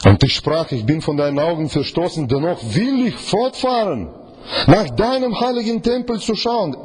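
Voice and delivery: ansteigend höher und feierlicher; sich steigernde Bibellesung. Acted. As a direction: den Vers sehnsuchtsvoll aufbauen. Liest Vers gesteigert. (feierlich steigernd gelesen)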